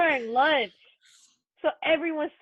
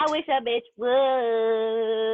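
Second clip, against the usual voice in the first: defiant drawl; 5 dB louder, much slower than usual. Real, not acted. Tough retort, dragged out.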